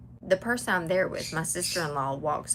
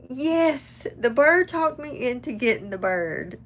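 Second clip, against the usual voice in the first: sassy retold answer; 6 semitones higher, 6 dB louder than usual. Her cheeky reply to dad.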